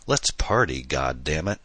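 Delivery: een beetje uitgelaten geroepen, niet echt luid; mild mock shout. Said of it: "she shouted maniacally".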